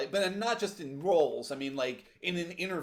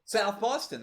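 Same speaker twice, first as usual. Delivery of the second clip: attempted Boston accent, a little higher; 4 semitones higher, slower than usual. Shown as a demonstration. Co-host trying the accent for laughs, Boston accent. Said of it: "butcher the Boston accent".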